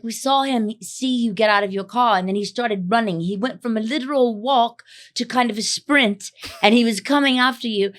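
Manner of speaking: lightly imitated British driver; British accent. Quoting the British driver on what he saw, imitated British accent. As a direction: retell it in a put-on British accent. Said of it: "he had, like, a British accent".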